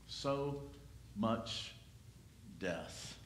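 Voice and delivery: fading low and soft; hushed lament. Acted. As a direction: let the words sink away. Sermon lament on death.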